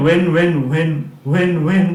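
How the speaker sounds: when with a breath of h after the w; h wrongly sounded. Shown as a demonstration. Teacher showing a common slip, when with h sounded. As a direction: aspirate the start of when. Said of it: "when কিন্তু নয়".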